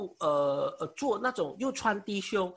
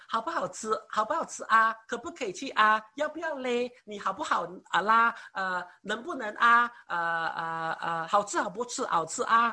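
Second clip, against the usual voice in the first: Malaysian Mandarin with the 啊 and 啦 endings leaned on; Malaysian Chinese accent. Shown as a demonstration. Preacher showing the congregation a Malaysian Chinese accent. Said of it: "马来西亚的中文呢，就说话是这样的哈".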